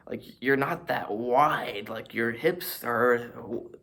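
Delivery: laughing mockery. Real, not acted. Vlogger laughing at stretched photos, slow and loud. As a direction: drag it out through a laugh.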